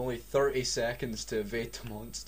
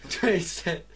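dramatic countdown; 3 semitones higher than usual. Acted. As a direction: build the tension second by second. Dramatic countdown while reading.

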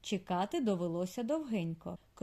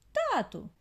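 high, louder barked call; squeaky bark; 9 semitones higher, 4 dB louder than usual. A narrator's reading. Daughter mole barks at her father, high squeaky shout. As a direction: snap at dad as hard as a tiny voice can. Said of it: "гаркнула".

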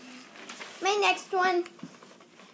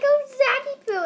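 hammed-up frightened cry for help; mock scared cry; 13 semitones higher, 8 dB louder than usual. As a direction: wail the name like a scared kid. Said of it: "and he's like".

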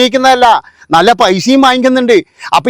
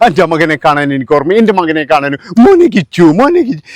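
mock crying mother; 5 semitones lower than usual. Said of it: "ഇപ്പോഴൊരു drama എടുക്കുകയാണ്".

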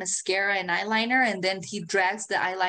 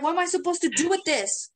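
put-on baffled teen; 9 semitones higher than usual. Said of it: "So I was like".

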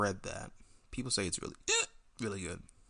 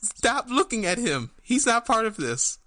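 alien overlord; 10 semitones higher, 5 dB louder than usual. Acted. Puppet scolds.

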